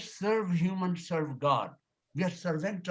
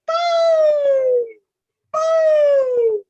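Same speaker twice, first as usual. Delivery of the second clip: very high, loud shrieked boo; playful shrieked boo at covid fear; boo shout; 12 dB louder than usual. Pretend. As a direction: scare the fear away with a piercing boo. Scaring away covid fear.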